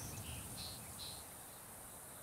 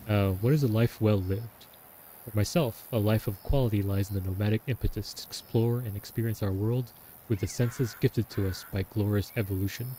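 diary reading. Shown as a demonstration. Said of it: "I'm not gonna try it".

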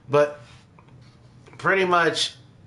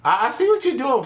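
knowing accusation; 9 semitones higher than usual. Real, not acted. Accusing the console.

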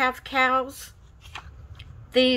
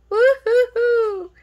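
high, loud whooping cheer; excited woo-hoo; 12 semitones higher, 5 dB louder than usual. Real, not acted. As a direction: whoop with joy. Cheering at cowgirl stickers.

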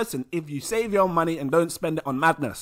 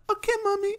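put-on high kid voice; child giving up; faster than usual. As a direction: wrap it up like a tired kid. Child voice ends skit.

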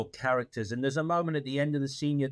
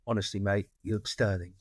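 lower, mock-gruff film quote; booming it out like the film line, a bit lower; playful lower-voiced go at the quote; imitating Woody; 4 semitones lower than usual. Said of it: "you did it far better".

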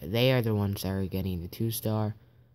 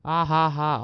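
louder taunting ha ha ha; mock laugh; 4 semitones higher, 5 dB louder than usual. Gamer mocking a rival's base with a louder fake laugh. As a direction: laugh it in their face. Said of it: "I'm laughing so hard".

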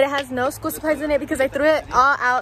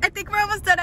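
excited relief; 4 semitones higher than usual. Real, not acted. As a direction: celebrate the arrival, stretching the word out. Celebrates reaching Utah on road trip.

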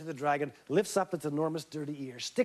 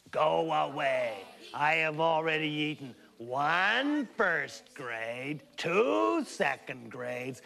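dragon voice; slower than usual. Acted. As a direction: drag the words out like a lazy dragon. Dragon voiced in read-aloud story.

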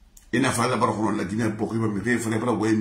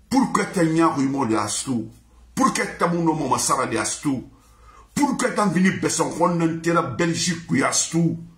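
higher-pitched, indignant questioning; heated scolding; 4 semitones higher than usual. Real, not acted. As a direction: fire reproachful questions, pitched high. Heated scolding of absent Astou.

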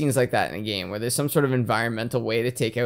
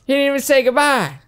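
high, loud impression of a film sidekick; hammed-up indignant outburst; mock movie-character yell; 14 semitones higher, 8 dB louder than usual. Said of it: "He's like".

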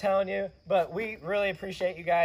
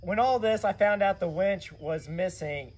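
raspy, worn-out voice; hoarse voice. Real, not acted. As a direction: talk through a lost voice. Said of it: "he lost his voice and sounds really raspy".

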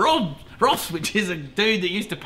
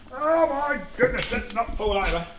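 real fright on a shaky ladder; startled wobble; 6 semitones higher than usual. Real, not acted. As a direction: catch your balance and blurt it.

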